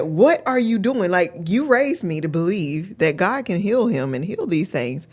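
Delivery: lightly imitated child's scolding, emphatic; a touch of a small girl telling off her mother; chastising little daughter. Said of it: "she chastised me immediately".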